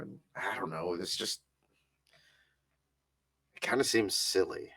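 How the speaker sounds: lightly voiced anxious nephew, halting with sighs; hesitant, broken by long pauses and sighs; anxious Atticus. Nephew admits anxiety to his aunt, hesitant and uneasy.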